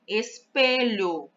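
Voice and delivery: Espelho slowly, leaning on the middle pe; stress on PE. Shown as a demonstration. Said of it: "a sílaba pronunciada com mais força é o pé".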